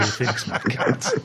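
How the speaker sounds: mock Scottish accent. Pundit repeating the joke name, in a slow Scottish accent. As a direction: draw it out low in a Scottish accent. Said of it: "do it in a Scottish accent".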